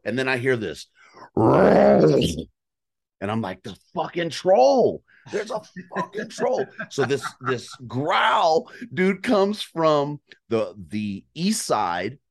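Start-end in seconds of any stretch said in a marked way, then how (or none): 1.4-6.6 louder, much higher, slow and stunned; blurting out that a troll is near; alarmed excitement. Retold or imitated. Hunter hearing a big bull growl, alarmed excitement.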